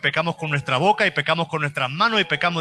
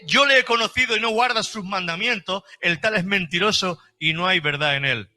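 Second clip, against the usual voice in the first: raised, measured Bible reading voice; scripture reading; 3 semitones higher than usual. Acted. Pastor reads First John to the church, in a raised reading voice. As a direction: read the passage out to the congregation.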